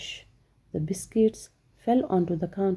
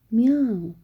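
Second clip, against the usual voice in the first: cat meow; 3 semitones higher, 5 dB louder than usual. Acted. Cat chasing mouse.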